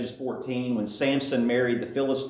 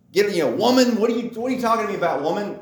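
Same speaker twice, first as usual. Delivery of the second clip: fast, rude brush-off, a little louder; rude reading; 4 semitones higher, 3 dB louder, much faster than usual. Retold or imitated. Pastor showing the disrespectful misreading of woman. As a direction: toss off woman like a put-down. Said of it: "Doesn't come across when you just read".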